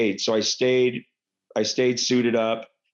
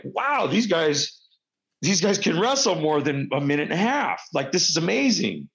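higher, acted-out wonder; amazed reaction; 6 semitones higher than usual. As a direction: marvel like an impressed wrestling fan. Voicing amazed viewers of the match.

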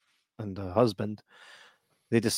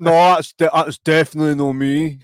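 panicked denial; 5 semitones higher, 8 dB louder than usual. Retold or imitated. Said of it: "I'm like".

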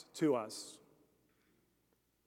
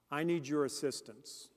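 quiet prayer; 4 semitones lower, 4 dB quieter than usual. Pretend. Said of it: "have to ask Christ".

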